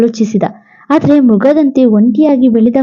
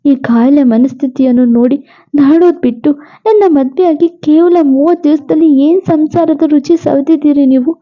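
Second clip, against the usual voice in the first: lightly voiced pleading wife; 2 semitones higher than usual. Dying wife begs husband Shiv to remarry, lightly raised voice.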